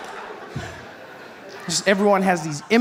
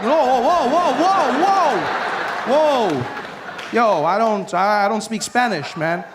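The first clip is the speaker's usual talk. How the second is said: flustered protest; 4 semitones higher, slower than usual. Retold or imitated. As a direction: wave him off in a panic.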